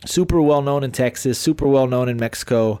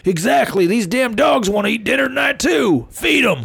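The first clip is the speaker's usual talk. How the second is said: high, raised-voice parental order; mock stern dad; 10 semitones higher than usual. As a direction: play an exasperated dad laying down the law. Acted dad giving an order.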